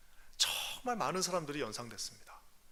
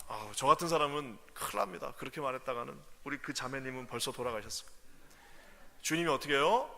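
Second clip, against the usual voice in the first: ordinary delivery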